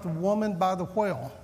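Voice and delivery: put-on southern accent. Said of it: "in my southern accent".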